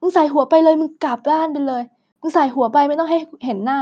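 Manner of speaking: imitating a teacher snapping at a pupil, slowing down at the end; half-acted scolding of a child; retold teacher yelling. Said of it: "ตะโกนตะคอกใส่เด็กว่า".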